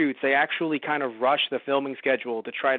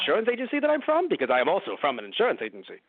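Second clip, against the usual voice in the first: put-on agent voice; 2 semitones lower, faster than usual. Acting another agent in the bit.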